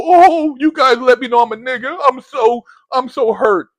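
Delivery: mock-offended "I'm so hurt" dripping sarcasm; sarcastic mock hurt. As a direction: pretend to be crushed, plainly not meaning it. Mocks being labelled by others.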